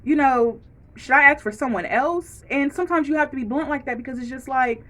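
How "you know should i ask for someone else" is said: higher, louder, fast pointed politeness; sugary but sharp, calling out rudeness; mock-sweet confrontation, much higher; polite check. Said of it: "check people politely".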